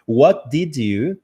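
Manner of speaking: "What did you" slowly, each word separate; word-by-word "What did you", rising; full slow form. Shown as a demonstration. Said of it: "A gente lê desse jeito".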